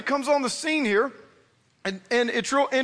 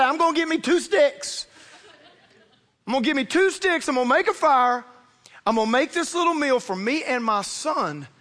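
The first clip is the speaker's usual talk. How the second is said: widow; 3 semitones higher than usual. Retold or imitated. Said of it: "The Bible says, she said".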